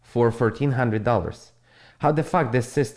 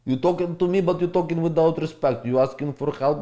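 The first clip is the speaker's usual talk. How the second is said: higher, affronted challenge to a rude viewer; offended talk-back, pitch raised; indignant retort; 6 semitones higher than usual. Acted. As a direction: put the disrespectful commenter in his place.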